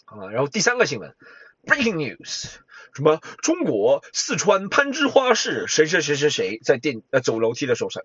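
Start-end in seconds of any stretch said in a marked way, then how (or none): 1.6-6.6 breaking news. Pretend. Third mock bulletin.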